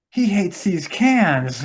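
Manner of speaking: high, loud, drawn-out mock panic; imitated movie alarm. Quoting the hero fleeing the sniper, mock panicked outcry. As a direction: cry it out slowly in comic realization. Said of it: "he's like".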